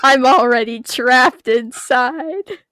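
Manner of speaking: slow, giggling through words; laughing. Real, not acted. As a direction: laugh while saying it.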